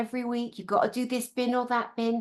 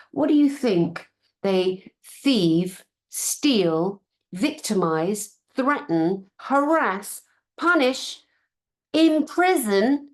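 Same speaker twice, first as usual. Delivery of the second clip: each word slower and louder, rising; building outrage; 2 semitones higher, 5 dB louder, much slower than usual. Real, not acted. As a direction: pile on the accusations with growing anger. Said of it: "building angry list of accusations".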